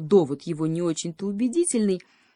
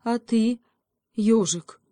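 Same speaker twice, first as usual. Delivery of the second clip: a touch of a plaintive plea, higher; 5 semitones higher, 4 dB louder, slower than usual. A narrator's reading. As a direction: hare asking the hedgehog meekly. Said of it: "жалобно спросил заяц". (жалобно, чуть выше)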